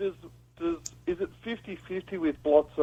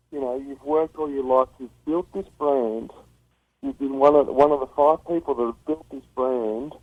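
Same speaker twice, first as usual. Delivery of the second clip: muffled, like talking into a pillow; 3 dB louder than usual. Real, not acted. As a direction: speak with the mouth in a pillow. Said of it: "Are you talking into a pillow".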